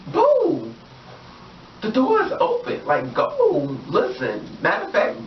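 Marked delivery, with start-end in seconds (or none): 0.1-3.8 high shrill yell to get out, shooing him; mock shrieking order. Shooing the guy out the door, high mock yell.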